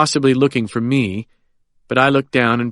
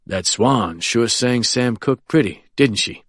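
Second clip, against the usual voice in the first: unhurried, savoring. Acted. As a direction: take your time, like stopping to smell the roses. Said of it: "voice of a man with an enviable ability to stop and smell the roses".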